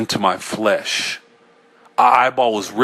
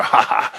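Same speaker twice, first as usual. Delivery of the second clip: mad laugh. A narrator's reading. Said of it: "I yelled and laughed harder".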